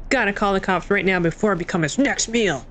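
lightly voiced character read; a hint of a put-on character voice; Albert voice. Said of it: "That's my Albert voice".

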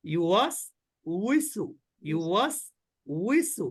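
"উইসু" with a w glide, like English we; correct version. Shown as a demonstration. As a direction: model the right way. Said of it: "তাহলে কি বলবো?". (সঠিক উচ্চারণ "উইসু")

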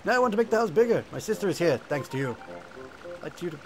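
cheerful little beaver asking favours; Bidoof voice. Acted.

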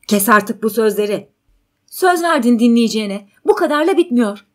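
loud, rising exasperation; angry protest. Acted. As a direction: cut them off forcefully. Man angrily cuts her off.

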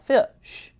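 fish slowly with an "uh" in the vowel; correct pronunciation. Shown as a demonstration. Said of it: "它是有一个呃的问题".

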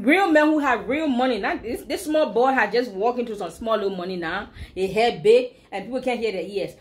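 lightly voiced Liberian English proverb; a touch of Liberian English street talk. Shown as a demonstration. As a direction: slip into a hint of Liberian English. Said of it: "I'm speaking some real Liberian English now".

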